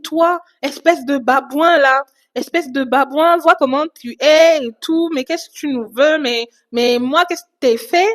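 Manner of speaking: invectives rejouées, plus aiguës et un peu appuyées; insultes imitées. Retold or imitated. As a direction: imite une femme qui insulte tout le monde. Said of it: "elle commence à tous nous insulter". (colère imitée, ton accusateur)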